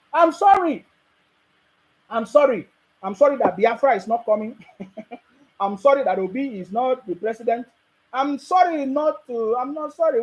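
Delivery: sarcastic sorry, jeering; fake-sorry taunt at opponents; mocking apology. Vlogger taunting rival supporters with mock sorry. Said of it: "I'm mocking all of you".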